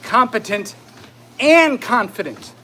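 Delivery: winded words between strides; out of breath while exercising. Real, not acted. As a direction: push the words out while power walking. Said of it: "can't talk 'cause I'm walking so fast".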